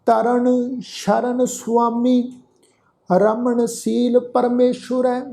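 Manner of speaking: slow Gurbani verse with stretched vowels; measured, sustained sacred reading; scripture recitation. Shown as a demonstration. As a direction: recite line by line, slowly and steadily. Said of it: "ਫਿਰ ਤੋਂ ਆਪਾਂ ਪਾਠ ਉਚਾਰਨ ਕਰਦੇ ਹਾਂ".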